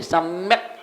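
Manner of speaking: सम्यक with held m, stopped short on k; stop after word. Shown as a demonstration. Teacher telling students to stop there, stop after word. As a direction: halt right on the k of सम्यक. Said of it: "वहीं रुक जाइए".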